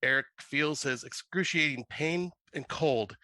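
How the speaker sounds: measured read-aloud storytelling; story narration. A narrator's reading. Writer reading own horror story to friends, narration. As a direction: read the eerie tale out evenly.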